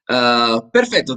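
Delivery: ordinary talk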